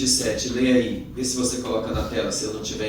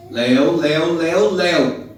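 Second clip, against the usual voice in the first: louder, insistent repeated name; calling out; 3 semitones higher, 8 dB louder than usual. Pretend. Preacher to his friend on camera, calling out. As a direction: call his name over and over, loudly.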